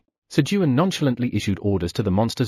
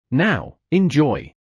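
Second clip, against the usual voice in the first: slow offer; 4 semitones higher, 3 dB louder, much slower than usual. Acted. Serving the eel slowly.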